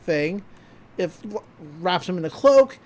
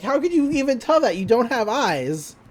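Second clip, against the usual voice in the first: higher-pitched mock disbelief; incredulous retort; 4 semitones higher than usual. Villain answering the insult to his mech, incredulous.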